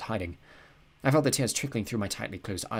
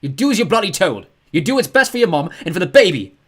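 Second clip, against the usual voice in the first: father shouting, much higher and louder; angry father; 9 semitones higher, 14 dB louder than usual. A narrator's reading. Father ordering his son to school, shouting. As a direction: bark orders at your son. Dad's side of fight.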